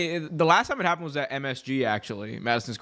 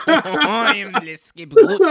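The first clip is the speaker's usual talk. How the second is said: louder, laughing fake French line; laughing mock French; 5 semitones higher, 9 dB louder than usual. Joking to his friend, laughing mock French voice. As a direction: ham it up through laughter.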